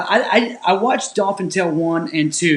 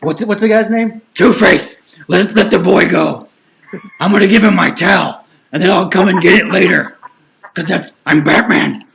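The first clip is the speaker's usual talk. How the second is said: gravelly Batman voice; 4 dB louder than usual. Pretend. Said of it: "You have to also have the gravelly voice though".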